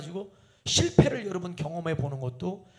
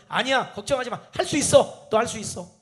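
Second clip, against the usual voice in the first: rising, louder cheer of you can do it; an eager parent cheering her child on; encouraging mother; 6 semitones higher, 7 dB louder than usual. Retold or imitated. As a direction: lift the child up with loud, bright encouragement. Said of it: "이렇게 말해주면".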